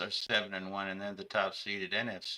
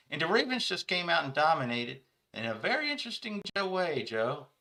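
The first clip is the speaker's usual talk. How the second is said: much higher, louder sports-radio host voice calling the listener Joe; an excitable talk-show pundit rating the game, pitched way up; Vinny Cerrato impression; 6 semitones higher, 5 dB louder than usual. Local radio pundit rates the game for Joe, high excited impression. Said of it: "my Vinny Cerrato impersonation".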